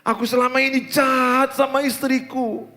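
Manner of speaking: high, loud, pleading cry to God; a drunk husband's tearful midnight plea for mercy; tearful prayer. Acted. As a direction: beg forgiveness near tears, voice straining high. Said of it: "Tiba-tiba dia nangis tengah malam berlutut".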